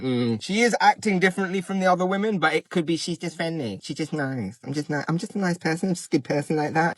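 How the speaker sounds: muttering doubts under his breath; mock inner musing, soft. Man second-guessing a woman's signals, in a soft muttered voice. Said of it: "I'm just like".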